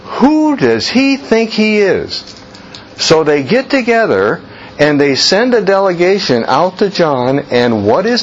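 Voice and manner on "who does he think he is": pitched-up mock indignation; half-acted scandalised question; indignant question. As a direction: echo the outrage, slower. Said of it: "Logical question, right?".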